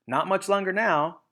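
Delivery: a hunter sure of his prey; confident Bean. Acted. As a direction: say it like the end is near.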